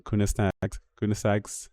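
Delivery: "Koenigsegg" attempted as KOO-nus-nag, then KOO-nus-saks; trying out pronunciations. Real, not acted. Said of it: "cannot say that name".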